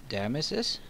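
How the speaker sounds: breathy gasping surprise; surprised gasp. Real, not acted. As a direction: gasp as you notice it. Surprised discovery.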